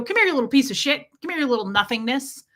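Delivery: quick, lightly mimicked put-down; retold contemptuous dad. Dad calling his daughter's pet, quick mock contempt. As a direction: imitate a dad belittling a pet, rattled off. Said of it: "he would do that every time".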